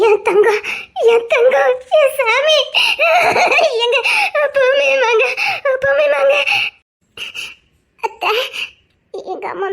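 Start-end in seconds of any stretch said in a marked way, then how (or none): 0.1-6.3 laughing through tears, voice breaking; overwhelmed, half sobbing and half laughing; tearful joy. Acted. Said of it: "இவ்வளவு கண்ணீர் வடிக்கிறாங்கன்னா". (ஆனந்தக் கண்ணீருடன் உடைந்த குரல்)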